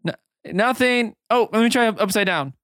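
put-on bright high-pitched girl; high Emmy voice. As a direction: pitch up, trying things out. NPC Emmy fiddling.

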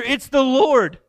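the moment you realize who's on the shore; excited recognition. Retold or imitated.

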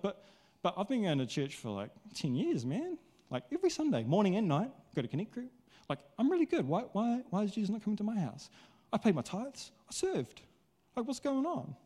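high, whiny, put-out complaining voice; indignant churchgoer. Retold or imitated. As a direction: moan like a hurt regular who feels left out. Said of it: "Got my indignant face on".

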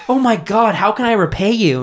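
high-pitched parody seductress; mock gushing gratitude. Lady thanks plumber for freeing her hand, mock gushing. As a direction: gush it, hammed-up.

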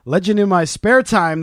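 booming showman welcome to the crowd; grand entrance announcement. Acted. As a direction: announce it like a ring MC. Podcast host opens the show.

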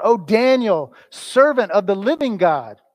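the king calls down into the den, loud and high; crying out. Retold or imitated. The king at dawn calling into the lions' den, loud cry. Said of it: "He cries out".

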